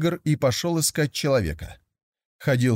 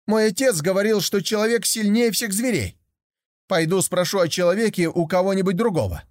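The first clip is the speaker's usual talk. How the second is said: put-on high, eager young tiger voice; a curious cub wondering aloud; higher, childlike young tiger full of wonder; naive young tiger; 8 semitones higher than usual.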